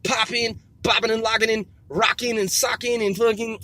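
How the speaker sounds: rapping in a mock country accent. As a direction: freestyle like a country rapper. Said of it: "I'm back in my country voice".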